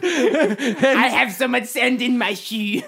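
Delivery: laughing through the words, slow; real laughter in the line. Real, not acted. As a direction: giggle it out. Laughing while talking.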